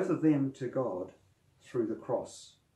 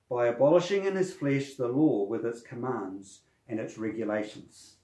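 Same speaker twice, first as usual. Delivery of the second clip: scripture reading; 3 dB louder than usual. Acted. Reads the Bible passage aloud.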